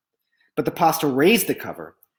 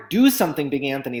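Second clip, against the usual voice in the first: urgent shout; faster than usual. Acted. Townspeople shouting at Big Anthony, urgent. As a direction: shout it at the fool who caused this. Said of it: "they shouted".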